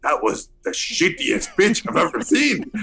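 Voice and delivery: accented mock disbelief rising to a punchline; deadpan then building outrage in Guillermo's accent; lightly voiced Guillermo roasting the pitch; Guillermo's blunt verdict. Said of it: "And he goes".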